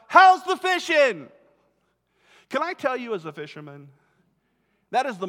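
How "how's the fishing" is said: high, loud, slow call across the water; hollered question. Retold or imitated. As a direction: call out from a hundred yards away. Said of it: "and he hollers out".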